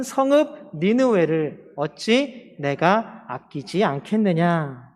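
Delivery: slow, measured reading aloud; scripture reading. Acted. Preacher reads the gourd verse with the congregation, slow measured recitation. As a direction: lead a congregation reading in unison, phrase by phrase.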